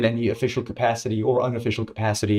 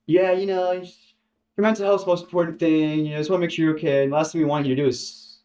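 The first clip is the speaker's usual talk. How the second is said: rehearsed corporate voice; 4 semitones higher than usual. Retold or imitated. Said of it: "as if rehearsed by his lawyers".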